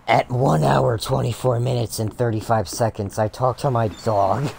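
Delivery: mock YouTuber hype read; clickbait announcer. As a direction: sell it like a clickbait video title. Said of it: "I can clickbait this and say".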